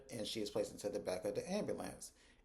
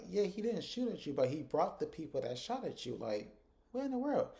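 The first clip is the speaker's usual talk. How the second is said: mock exasperated Zach; 5 semitones higher than usual. Zach retorts angrily about Jeremiah.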